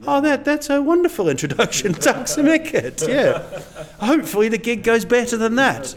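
a high, laughing put-on voice to mock a grim welcome; mock reply. To the courthouse hosts, a high mock sarcastic reply. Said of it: "I was like".

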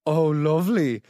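slow, drawn-out groan of imitated delight; lightly acted, lingering moan of pleasure; mock pleasured groan. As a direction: groan it slowly, playing the nuzzled lover. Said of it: "She started growing, saying".

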